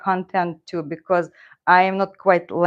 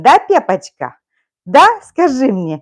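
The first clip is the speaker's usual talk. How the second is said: cooing to the cat; 5 semitones higher, 8 dB louder than usual. Real, not acted. Owner cooing lovingly at her cat, high baby talk. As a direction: coo at the cat, high and loud. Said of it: "and that's how we are talking".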